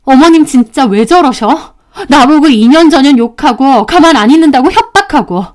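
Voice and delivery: heated complaint to husband; exasperated wife; very angry. Acted. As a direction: vent indignantly about his mother. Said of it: "화가 너무 나서 바로 남편에게".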